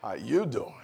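"How you doing?" with a laugh; amused how you doing; laughing greeting. Shown as a demonstration. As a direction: chuckle through it. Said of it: "It sounds a little different".

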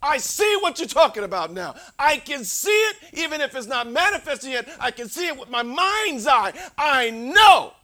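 high, loud, ringing declaration; loud confident quote. Acted. Preacher voicing Paul's certainty, high and loud. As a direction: proclaim it like a man sure of his fate.

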